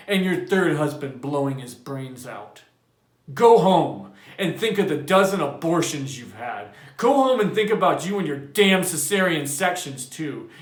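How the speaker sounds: loud, rising fury; yelling. A narrator's reading. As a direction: yell her out of the house. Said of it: "Montag yelled".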